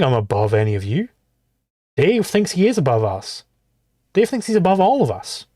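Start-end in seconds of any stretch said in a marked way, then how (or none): none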